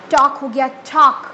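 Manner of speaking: टॉक with a burst of air on the t; aspirated bursting sound. Shown as a demonstration. Teacher showing students the burst in टॉक. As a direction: puff the air hard on टॉक. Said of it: "मैंने आपको बोल के भी बताया".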